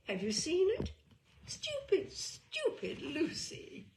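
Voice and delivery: jumpy voice swinging from hushed to high squeals; mock her like an unhinged girl; manic cousin. Cousin Lucy mocks herself to the guests, manic and jumpy.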